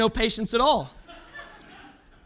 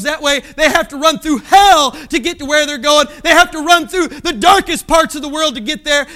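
louder warning cry from the pulpit; raised preaching voice; preaching shout; 5 dB louder than usual. Real, not acted. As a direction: hammer the warning home. Warning about the wrong course.

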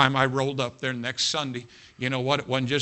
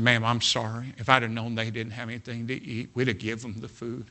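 retold apology; 4 semitones lower, 4 dB quieter than usual. Retells his apology to the mother.

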